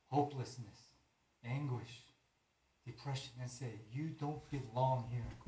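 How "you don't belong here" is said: with authority. Shown as a demonstration. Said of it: "Say it with authority".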